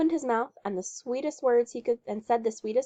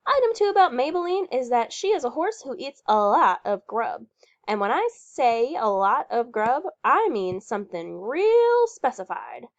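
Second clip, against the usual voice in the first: a hint of a bossy, emphatic woman; bossy Patty Lamarck; 2 semitones higher, 4 dB louder than usual. Patty instructing Leroy about the horse, lightly voiced bossy. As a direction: lay down the rules like a bossy horse owner.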